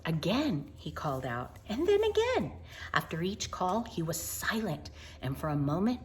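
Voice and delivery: gentle picture-book narration; storybook reading. Acted. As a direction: read it like a bedtime story.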